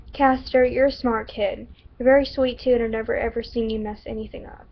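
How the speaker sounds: put-on stereotypical American Southern accent. Shelby encourages Caster while cooking, Southern accent. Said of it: "stereotypical Southern accent".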